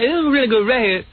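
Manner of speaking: imitated Black American talk. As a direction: present it in a mock Black American accent. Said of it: "he told like this".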